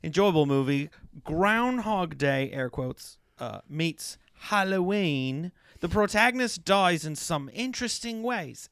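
mock British review reading; lightly hammed British accent. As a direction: read it out in a put-on British accent. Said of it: "keep doing British".

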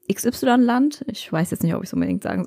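secretive whisper. Real, not acted. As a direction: drop to a gossipy whisper. Whispered gossip about friend's mother.

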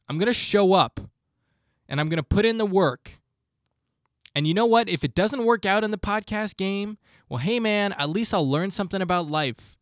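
pumped-up pep talk. Real, not acted.

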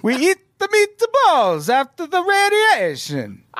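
very high, exaggerated Italian accent. Podcaster riffing on meatballs at Chernobyl, over-the-top Italian accent. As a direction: ham it up as a cartoon Italian. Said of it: "that was a great Italian accent".

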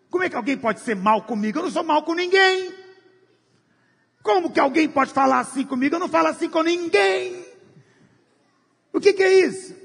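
embittered believer offended by others; indignant complaint. Acted. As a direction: protest as the wronged good man. Bitter person complaining of mistreatment.

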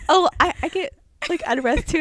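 high, light mock runner voice; imitated polite agreement.

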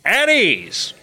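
put-on high, barked old-timey order; booming at ease. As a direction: bark it like a drill officer. Imitating the at ease guy.

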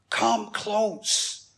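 softened, earnest appeal to a brother; gentle beckoning. Acted. Joseph beckoning his frightened brothers, softly earnest invitation. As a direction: invite them nearer, softly and sincerely.

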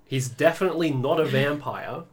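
dry sarcastic denial. Acted. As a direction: say it with heavy sarcasm. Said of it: "I'm saying it sarcastically the entire time".

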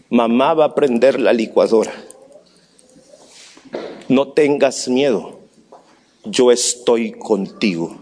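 put-on calm a scared little girl gently; tender reassurance. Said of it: "y le dije".

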